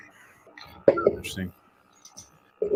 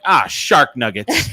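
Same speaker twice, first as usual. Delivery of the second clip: put-on kid flub; 2 semitones higher, slower than usual. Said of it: "something kids would say when they mess up".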